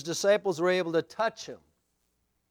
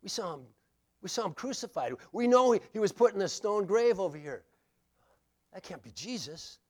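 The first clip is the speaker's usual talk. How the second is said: hushed disbelief; 3 semitones higher than usual. Acted. Disciples voiced in disbelief.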